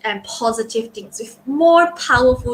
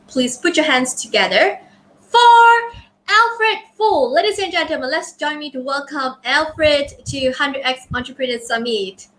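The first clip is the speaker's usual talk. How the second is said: grand entrance announcement. Real, not acted. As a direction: announce the guest like an emcee. Host introduces speaker to stage.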